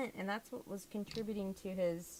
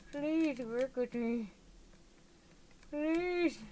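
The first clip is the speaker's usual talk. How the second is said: pleading; 5 semitones higher, much slower than usual. Real, not acted. Begging the stubborn piece.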